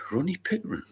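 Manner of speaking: a silly high voice to tease the viewer; mock high voice. Repeats name in put-on voice.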